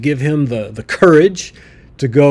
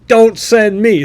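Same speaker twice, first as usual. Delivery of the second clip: whiny Moses; 7 semitones higher, 4 dB louder, slower than usual. Acted. Moses begging, paraphrased.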